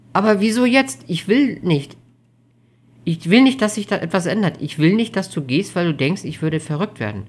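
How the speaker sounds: put-on high, pleading girlfriend voice; anxious young woman. Amelie's voice in dialogue.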